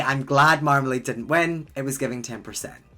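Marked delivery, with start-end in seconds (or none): 0.0-1.7 blunt retold remark. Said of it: "I say".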